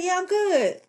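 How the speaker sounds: high-pitched imitation of a niece; imitated girl's reply. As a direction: answer auntie in a high voice. Girl reassures aunt on phone.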